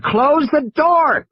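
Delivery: high, slow, pleading order; urgent boy. Acted. High, slow, urgent boy voice. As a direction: Tim urges Lex again to shut the door. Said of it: "Tim said".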